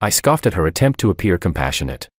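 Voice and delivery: usual speaking voice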